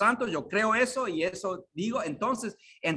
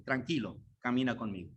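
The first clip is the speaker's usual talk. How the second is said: much softer and lower, calming; tender Jesus voice; 7 semitones lower, 8 dB quieter, faster than usual. Acted. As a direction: soothe him gently: it's all right. (Jesús, tierno y en voz baja)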